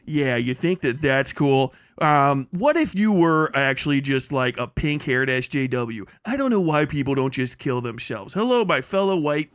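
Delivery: lightly voiced robotic AI imitation, slowish; mock a flat text-to-speech voice reading a screed; a hint of a canned AI voice; AI voice mockery. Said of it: "put it through the".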